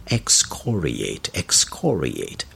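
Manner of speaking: excoriate said slowly, stress on COR; stress on second syllable. Shown as a demonstration. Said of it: "Note the pronunciation on the second syllable".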